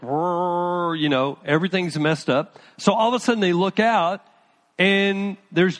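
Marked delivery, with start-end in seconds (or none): 0.0-1.0 long, level mock roar; half-hearted rumble of rough weather; imitated storm roar. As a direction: make a drawn-out "rrr" storm noise. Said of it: "and it's like".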